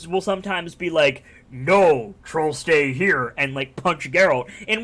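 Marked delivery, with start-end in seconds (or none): 1.5-3.3 stubborn troll. Retold or imitated. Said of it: "And the troll will".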